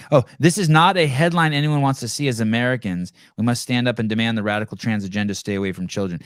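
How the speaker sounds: mocking read-out of the quote; sarcastic quote voice; reading a post aloud. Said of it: "listen to this fucking".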